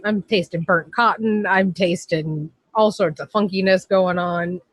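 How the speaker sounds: stuffy nose, congested; talking through a blocked nose. Real, not acted. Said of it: "I can't breathe through my nose".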